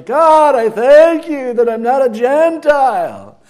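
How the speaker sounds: a Jewish man's morning prayer, lightly put-on Jewish inflection. Shown as a demonstration. A preacher voicing a Jewish man thanking God, with a Jewish inflection. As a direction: pray it with a Jewish lilt, leaning on God. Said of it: "like a Jewish inflection?".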